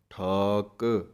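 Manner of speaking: ਠਾਕ with a crisp final ਕ; ਕੱਕਾ ਸਾਫ਼; clear ਕ sound. Shown as a demonstration. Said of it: "ਕੱਕੇ ਦੀ ਆਵਾਜ਼ ਆਉਣੀ ਚਾਹੀਦੀ ਹੈ".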